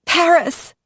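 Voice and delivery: shout. A narrator's reading. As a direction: fling the word out as a clue. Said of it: "she shouted".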